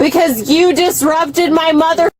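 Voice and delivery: real heated protest; insistent, emphatic complaint hollered at the officer; screaming. Real, not acted. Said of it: "I cannot stop screaming".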